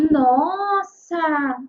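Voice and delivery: loud, drawn-out amazed "Nossa!"; big demonstrative wow; exclamation. Shown as a demonstration. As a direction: exclaim in astonishment, stretching the first vowel. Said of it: "exclamar alguma coisa".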